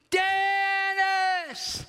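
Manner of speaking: long, high, loud cry of the name. Retold or imitated. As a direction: call the name out like a prayer. Praying cry heard by brother.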